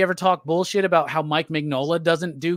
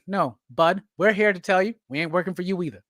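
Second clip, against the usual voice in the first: put-on Todd McFarlane accent. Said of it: "I like the accent".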